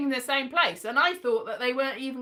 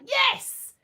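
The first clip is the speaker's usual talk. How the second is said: high, eager yes; delighted acceptance; 12 semitones higher than usual. Retold or imitated. Speaker accepting friends' offer of a flat, delighted. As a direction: jump at the offer, pitched right up.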